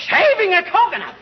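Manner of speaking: can't believe what you just heard; incredulous disbelief. Acted. Husband echoing the girl's confession in disbelief, incredulous. McGee hears the razor's fate.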